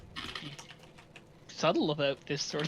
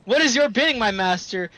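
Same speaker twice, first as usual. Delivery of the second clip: booming genie, loud and high; 3 semitones higher, 6 dB louder than usual. Retold or imitated. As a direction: boom it out like a summoned genie. Imitating the genie.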